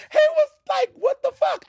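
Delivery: high squeaky quote straight out of laughter; laughing retelling. Retold or imitated. Retelling the annoyed bully's reaction, laughing mimicry. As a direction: imitate his disbelief while still cracking up.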